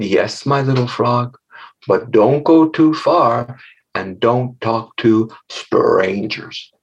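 slow, careful motherly warning; lightly voiced mother frog. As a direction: gently play a cautioning frog mama. Mother frog warns her child.

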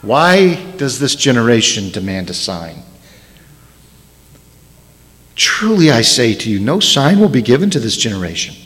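low and soft, wearied by their demand; heavy-hearted, hushed rebuke; a sighing, tired teacher; weary sigh. Retold or imitated. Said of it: "he sighed deeply in his spirit".

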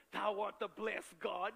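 slow, pompous prayer voice; mock formal prayer. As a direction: ham up a churchy "thou art". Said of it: "you don't talk like that".

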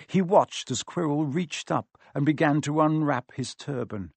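plain reading voice

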